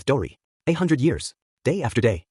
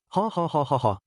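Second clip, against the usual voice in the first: big booming giant's laugh, pitched up; a giant's hearty laughter; 4 semitones higher than usual. A narrator's reading. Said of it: "Bragi laughed heartily".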